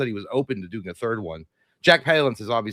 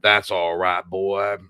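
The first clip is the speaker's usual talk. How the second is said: soothing the horse; 4 semitones lower, 3 dB louder, much slower than usual. Retold or imitated. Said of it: "how he talks to his horse".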